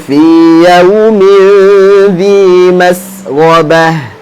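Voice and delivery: slow recitation with long held vowels; Quran recitation. Shown as a demonstration. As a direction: recite slowly, sustaining each nasal hum. Recites Quran for class to repeat.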